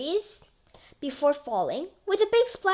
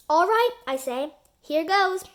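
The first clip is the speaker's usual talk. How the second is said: eager; 5 semitones higher, 5 dB louder than usual. Acted. Eager start of story.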